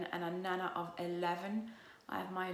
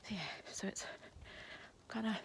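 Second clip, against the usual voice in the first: whispering; 3 semitones higher, 5 dB quieter than usual. Real, not acted. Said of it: "Don't know why I'm whispering".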